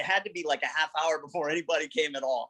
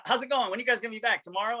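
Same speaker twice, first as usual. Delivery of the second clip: higher-pitched imitated phone chat; light, raised voice for retold questions; chatty phone questions; 7 semitones higher, faster than usual. Retelling the call to Bill about getting back, chatty and high-pitched.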